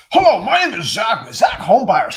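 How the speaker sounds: loud, high, over-peppy sales greeting; hammed-up mock salesman pitch; fake wholesaler. Coach mimics wholesalers he hates, fake and overblown. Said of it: "I hate these se-, like, people in wholesaling".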